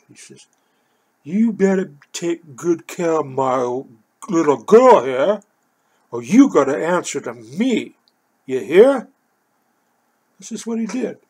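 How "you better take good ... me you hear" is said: retold stern warning. Man warns narrator to take care of his girl, stern warning. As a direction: lay down the law, drawing the words out.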